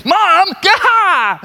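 a son groaning at his mother; exasperated groan. Retold or imitated. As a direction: whine it like a fed-up kid.

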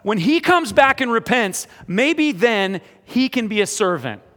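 put-on older brother to his father, refusing forgiveness loudly; stern older brother. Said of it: "he misunderstood and said".

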